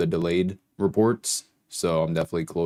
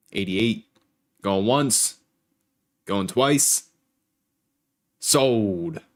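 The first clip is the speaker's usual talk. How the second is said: going once, going twice, rising; auctioneer; 2 semitones higher, 4 dB louder, much slower than usual. Pretend. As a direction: call it like an auctioneer closing a sale. Auction call after bids.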